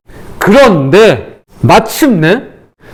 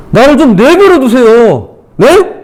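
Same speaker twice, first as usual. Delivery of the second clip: lightly voiced pleading Job; a touch of protest, questioning at the end; 3 semitones higher, slower than usual. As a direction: read it as a mild exasperated appeal. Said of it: "이게 욥이 한 말이에요".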